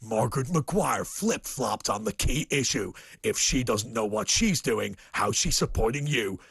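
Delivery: low ominous attack ad read; sinister ad voice. Acted. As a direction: drop it low and menacing. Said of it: "then they do the".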